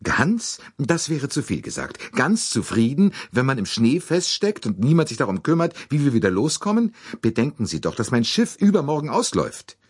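high, put-upon lady; indignant fussy lady. Acted. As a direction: grumble like an aggrieved matron. Mrs Hubbard voiced.

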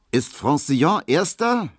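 laut gerufene Frage, höher; rufend. A narrator's reading. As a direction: ruf es quer durchs Zimmer. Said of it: "rief er dann". (Markowski ruft Kubinke zu, laut und höher)

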